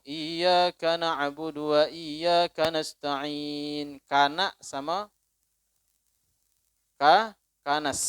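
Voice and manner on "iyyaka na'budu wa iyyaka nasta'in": "iyyaka nasta'in" run together so the kaf joins "nasta'in"; connected reading. Shown as a demonstration. Preacher imitates imams who run the kaf together, slow. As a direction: read "iyyaka nasta'in" slowly with no break at the kaf. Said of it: "Ada sebagian imam bacanya nyambung".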